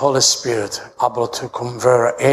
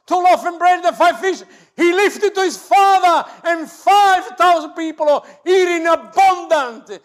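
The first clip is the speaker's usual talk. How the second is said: full-force preaching. Acted. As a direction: preach it out to the whole church. Preaching at full force, pitch far up.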